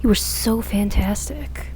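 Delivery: slow, drawn-out sultry greeting; lingering on each word to tease; seductive. Acted. Christy greeting Bruno slowly and seductively.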